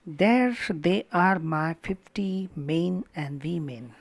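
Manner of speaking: "There they are, my fifty men and women" slow, strong-weak beats; trochaic stress. Shown as a demonstration. Teacher reading a trochee example, "There they are, my fifty men and women" in strong-weak stress. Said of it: "stressed followed by unstressed".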